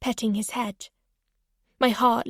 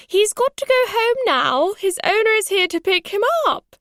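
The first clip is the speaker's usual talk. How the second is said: put-on high, raised accented voice; grandmother calling back; 10 semitones higher, 5 dB louder than usual. A narrator's reading. Grandmother overruling the child's protest, loud accented call. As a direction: insist loudly across the lawn in an accent.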